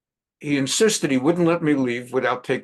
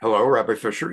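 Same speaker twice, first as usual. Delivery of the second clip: put-on lower-pitched, lightly done Persian accent for the uncle; a hint of a Persian uncle's accent; heavy Persian accent; 5 semitones lower than usual. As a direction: imitate an older Persian man's accent, pitched down. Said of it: "heavy Persian accent".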